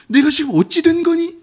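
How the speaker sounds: high, anguished plea to Adam; a heartbroken father calling out, voice pitched high; pained God. Acted. God asking Adam in pained anguish. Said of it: "하나님의 아픈 마음이 질문에 담겨 있어요".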